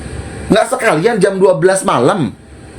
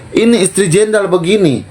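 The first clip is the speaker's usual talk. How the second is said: retold mockery; 4 semitones higher than usual.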